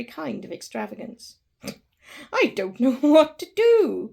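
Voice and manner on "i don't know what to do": loud, laughing through tears; laughing and crying. Acted. Scrooge overjoyed at waking, laughing and crying at once. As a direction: blurt it out between laughs and sobs. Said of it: "laughing and crying in the same breath".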